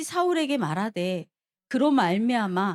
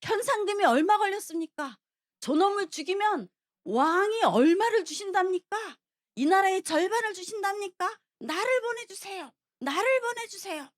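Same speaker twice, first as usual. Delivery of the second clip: deliberate loud commotion; 6 semitones higher than usual. Retold or imitated. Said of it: "일부러 막 소란을 일으키는 거예요".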